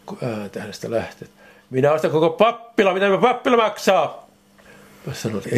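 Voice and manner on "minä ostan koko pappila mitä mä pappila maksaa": high, loud demanding yell; loud retold shout. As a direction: bellow the offer to buy it all. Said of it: "sit se huutaa niin lujaa".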